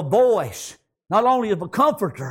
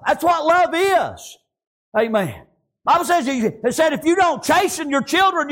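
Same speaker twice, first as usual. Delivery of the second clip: fervent preaching; 5 semitones higher than usual. Real, not acted. Preaches to congregation.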